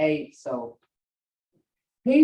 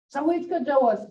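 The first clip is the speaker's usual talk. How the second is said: questioning tone; 6 semitones higher, faster than usual. Shown as a demonstration. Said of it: "Hear that, uh, tone in my voice?".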